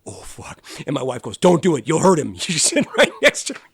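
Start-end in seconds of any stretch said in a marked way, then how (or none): 0.1-0.6 whispered, softer, under the breath; awed whisper. Retold or imitated. Spotting his hero shooting hoops, a stunned whisper. 1.4-2.3 louder, higher, a mock scolding wife; wife's warning. Wife warns him not to go play, mock scolding.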